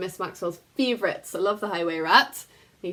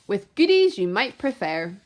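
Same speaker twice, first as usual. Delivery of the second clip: sly duck. Acted. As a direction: coax him along. Duck tempts the rat.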